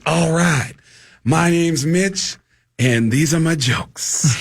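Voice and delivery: lightly imitated slow stage drawl; Mitch Hedberg. Comedian opening his set, light slow drawl. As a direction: draw the words out lazily. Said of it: "and Mitch goes".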